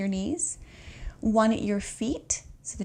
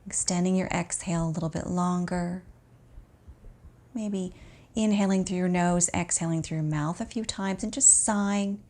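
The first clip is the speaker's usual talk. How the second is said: calm, unhurried meditation voice with long pauses; guided relaxation. Acted. Teacher guiding an exhausted student to notice the breath, calm guided relaxation. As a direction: ease the listener gently into rest.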